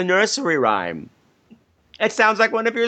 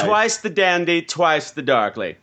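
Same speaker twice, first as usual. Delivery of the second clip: slow, grand announcement; slower than usual. Acted. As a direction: spell it out slowly for effect.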